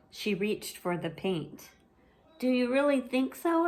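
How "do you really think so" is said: high, hesitant little-sister voice; unsure and a bit shy; a small sister holding on to what she likes; timid little sister. Acted. Ivy doubtful.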